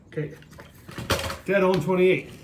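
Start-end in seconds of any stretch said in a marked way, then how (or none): 1.4-2.3 higher, amazed exclamation; surprised. Real, not acted. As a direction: say it like you can't believe it. Repeats weight, amazed.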